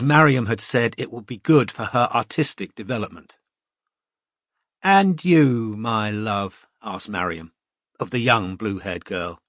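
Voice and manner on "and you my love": lightly voiced cheerful teacher. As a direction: address the class like a confident tutor. Mariam asks the girl.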